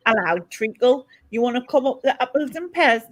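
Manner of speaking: badly faked Cockney slipping into Geordie; attempted Cockney accent. Another go at Cockney rhyming slang, Cockney gone Geordie. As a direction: try a chummy Cockney, landing in Geordie. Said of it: "No, see, it's gone, Geordie".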